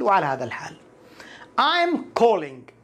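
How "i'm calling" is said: "I'm calling" drawn out very slowly; slow demo. Shown as a demonstration. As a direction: stretch "I'm calling" syllable by syllable for learners. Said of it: "أنا أتصل".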